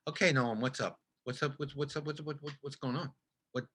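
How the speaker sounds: hushed, fast, half-laughing pleading; quiet exasperated pleading. Retold or imitated. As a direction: quietly beg for an answer, rushing the words. Pleading with director, retold.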